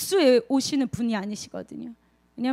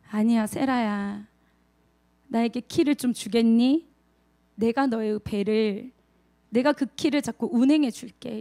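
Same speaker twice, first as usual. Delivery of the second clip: quiet, gentle Lord; 3 semitones lower than usual. Acted. The Lord gently asks a believer for the helm, calm and tender. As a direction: speak low and unhurried, softly coaxing. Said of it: "조용히 아마 이렇게 말씀하실".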